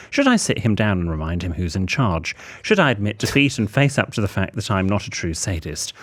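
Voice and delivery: measured, formal run of questions; letter read aloud. Acted. Host reads the writer's dilemma asking for advice, measured letter-reading voice.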